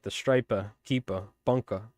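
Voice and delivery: New England accent with dropped final r's; sample the accent: stripah, keepah, bunkah; regional New England accent. Shown as a demonstration. Showing viewers a regional accent by example, New England r-dropping. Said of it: "that sort of thing".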